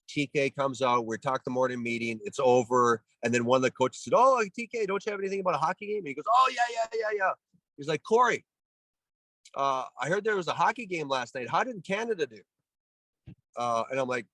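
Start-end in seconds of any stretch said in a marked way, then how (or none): 4.2-6.0 high, teasing coach impression, fast at the end; mocking coach voice. 6.3-7.3 high, sing-song imitation of the coach; mock TK voice. TK answering, retold. 8.0-12.4 high, prodding coach voice; imitating TK. TK grilling him, retold.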